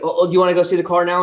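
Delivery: high, quick, mock-eager; suddenly falling over himself to please; high fast fawning dealer; fawning salesman. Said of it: "she's like".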